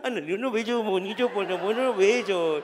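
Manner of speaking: begging loudly for kisses in a sing-song. Retold or imitated. Grandpa in the supermarket begging for phone kisses, loud coo. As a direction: coax the kisses out of her. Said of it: "yo en Soriana".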